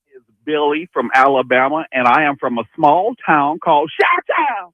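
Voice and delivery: a light put-on Alabama accent. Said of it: "Was that your best Alabama accent?".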